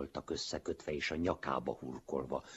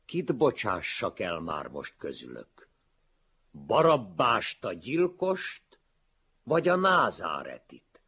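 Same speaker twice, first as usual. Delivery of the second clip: high, loud public question, rising as it goes; proclaiming call; 5 semitones higher, 9 dB louder than usual. A narrator's reading. Pilate asks the crowd from the porch, calling loudly.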